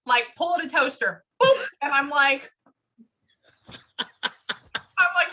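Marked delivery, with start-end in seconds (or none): 1.4-1.6 short popping "poop" noise; quick spoken sound effect; imitated pop. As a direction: mimic a plug being pulled. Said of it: "He goes like this, he goes".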